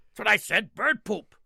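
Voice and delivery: insist, the pirate's had enough; insistent pirate. Retold or imitated. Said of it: "pirate insists".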